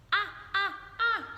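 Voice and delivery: high, loud startled shriek; little girl screams at the ants; girl's shout. A narrator's reading. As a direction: scream it as ants crawl on her. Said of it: "shouted the little girl".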